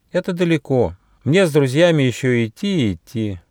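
high-pitched little mouse voices; lively mouse chatter, pitched well up; little mice chatting. Acted. Mice talk of the tiger and home, high and lively.

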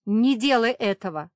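high, loud desperate shout; yell. A narrator's reading. Safira yells at Yogan to stop, loud shout. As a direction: scream it at him. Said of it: "заорала Сафира".

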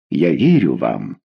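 slow, low and trusting. A narrator's reading. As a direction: say it with full trust. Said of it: "сказала королева, с доверием". (медленно, с доверием)

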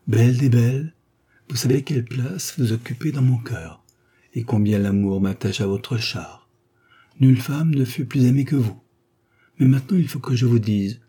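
a hint of a tender lover, lightly voiced; tender declaration. Count to lady, a lightly tender declaration of love. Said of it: "une déclaration fort tendre".

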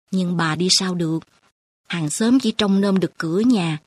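old grandmother, lightly voiced. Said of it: "rồi lại thủ thỉ".

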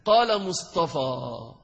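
slowly, word by word, ending on a plain long alif; slow demo reading. Shown as a demonstration. Teacher to students, reading the phrase slowly. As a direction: read it out slowly for the class to hear. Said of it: "أحد يأتيني بالضمة هكذا؟".

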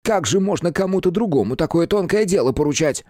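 высокий обиженный голос фамильяра; оправдывайся тонко и с обидой; оскорблённо. Acted. (обиженный фамильяр, высоким голосом)

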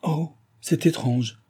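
high, slow, astonished "oh"; surprised exclamation. A narrator's reading. Philippe reacting to the strange news, surprised. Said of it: "s'écria Philippe surpris".

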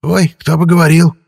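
high, loud jeering ghost; mocking ghost. A narrator's reading. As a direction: scoff in a spirit's voice. Ghost mocks vampire. (насмешливый призрак)

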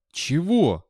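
high, horrified question. A narrator's reading. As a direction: ask it in dismay. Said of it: "спросил Виктор с ужасом".

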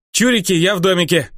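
high, sing-song playground jeer; the herald taunts the orc from the safe zone, high and gloating; childish taunting call. Acted. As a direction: tease from safety like a kid. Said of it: "прокричал он".

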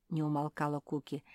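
ordinary delivery

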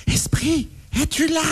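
seance medium. Shown as a demonstration. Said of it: "répète avec moi".

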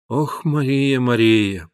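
usual speaking voice

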